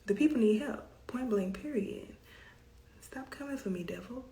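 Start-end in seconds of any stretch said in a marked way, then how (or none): 3.0-4.2 breathy whisper under her breath; whispered aside. Real, not acted. Whispering at the devil over the dropped connection. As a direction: hiss it quietly to yourself, half joking.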